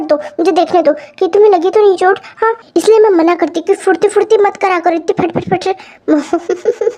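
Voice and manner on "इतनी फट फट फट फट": slow words through giggles; giggling through the words; laughing. Acted. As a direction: laugh while scolding lightly. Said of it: "अब तुम हंस रही हो".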